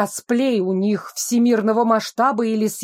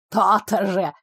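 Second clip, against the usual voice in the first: snide; 2 semitones lower than usual. Acted. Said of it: "ехидно выдала".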